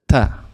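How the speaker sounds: ta, tongue just behind the teeth on the palate; Arabic ta. Shown as a demonstration. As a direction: say ta with the tongue touching the upper palate. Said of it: "ta, instead of ta".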